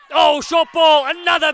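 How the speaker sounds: excited call. Real, not acted. Sudden break call.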